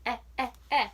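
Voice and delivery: stretched short vowel "e-e-e" as in pet; short e sound. Shown as a demonstration. Teacher sounding out "e-e-e" for young readers. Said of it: "in the middle of p-e-t".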